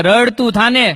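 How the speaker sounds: mock angry sadhu. Angry sadhu shouting back.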